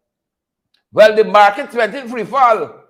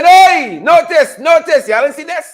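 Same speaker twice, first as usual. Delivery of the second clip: high, loud call for attention; mock alert, pointing it out; 5 semitones higher, 3 dB louder than usual. Host calls viewers to notice, raised excited call.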